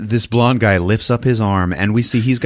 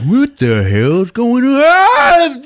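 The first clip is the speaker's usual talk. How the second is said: high, loud, slow panicked yell; mock panicked shout; 7 dB louder, slower than usual. Henchman panicking at the spinning blade, loud high yell.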